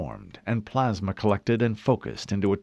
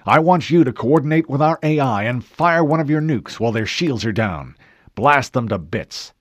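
lightly voiced admiral, firm and louder; commanding admiral; 3 semitones higher, 6 dB louder than usual. Admiral laying out his attack plan with firm command. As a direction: give the order with full authority. Admiral gives battle orders.

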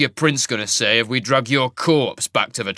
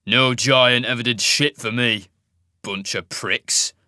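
louder, slowing contempt; contemptuous growl; 4 dB louder, slower than usual. Acted. Jarek scorning the giants, a loud slow sneer. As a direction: sneer it out slowly.

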